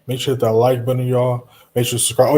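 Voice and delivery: loud, quick shout-out to viewers; hyped call-out. Real, not acted. Streamer to viewers, a loud, fast push to like and subscribe. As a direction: pump up the chat.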